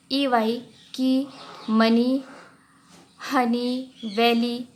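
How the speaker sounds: की, मनी, हनी, वैली said slowly, each ending in a long ee; ee sound for ey. Shown as a demonstration. Teacher showing that ey endings sound like ee, slow and clear. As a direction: draw out the ee at the end of मनी and हनी. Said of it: "ये जो sound है E Y के sound है".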